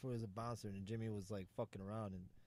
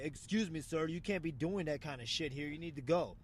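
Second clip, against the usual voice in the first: polite warning. Retold or imitated. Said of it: "if I was starting to get mad".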